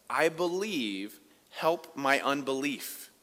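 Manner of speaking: slow, hushed, a touch of tears; father begging Jesus, slow and subdued; quiet tearful plea. Acted. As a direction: plead softly, slowly, as if near tears. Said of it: "He was crying".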